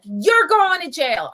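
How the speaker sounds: high, loud, slow panicked threat; freaking out. Retold or imitated. Manager freaks out threatening the thirteen-year-old with jail. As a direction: shriek the threat like she's losing it. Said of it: "Freaking out".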